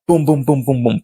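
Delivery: rapid-fire booms, punched out; imitated explosions. Vlogger imitating portals opening, punchy booms. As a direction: voice a string of sound effects.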